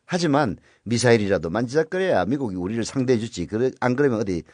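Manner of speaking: put-on light North Korean accent, barely shifted; a hint of North Korean speech. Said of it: "좀 북한 말투로 얘기했는데".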